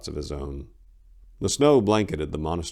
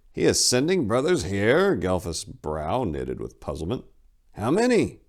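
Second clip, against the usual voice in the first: higher, louder, surprised question; puzzled abbot; 4 semitones higher, 3 dB louder than usual. Acted. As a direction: abbot caught off guard.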